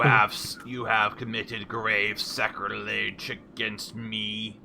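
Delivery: slow, loud robotic boss voice; mechanical monotone voice. Acted. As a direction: boom it out like a machine overlord. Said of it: "loud, mechanical, monotone voice".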